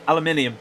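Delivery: "aluminium" attempted and slightly muddled; failed pronunciation attempt. Real, not acted. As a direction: have a go at "aluminium" and stumble on its middle. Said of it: "Can't do it".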